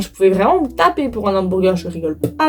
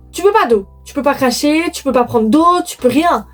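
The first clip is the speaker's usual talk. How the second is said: exasperated; 4 semitones higher than usual. Real, not acted.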